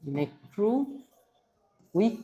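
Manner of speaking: ইলেকট্রো, a pause, then উইক, each part set apart; split into syllables. Shown as a demonstration. Teacher splits the word for students, pausing between parts. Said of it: "এটাকে যদি আমরা দুই সিলেবলে ভাগ করি".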